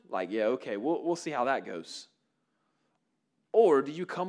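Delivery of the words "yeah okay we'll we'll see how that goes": low, dismissive doubting tone; skeptical doubt. Retold or imitated. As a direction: sound like you don't believe them. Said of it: "like, skepticism?".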